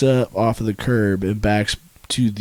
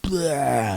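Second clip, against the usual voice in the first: dramatic blood spit; 6 semitones higher than usual. Retold or imitated. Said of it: "I rolled out all dramatic".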